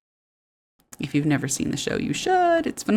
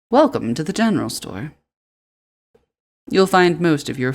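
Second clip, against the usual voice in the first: storekeeper. Acted.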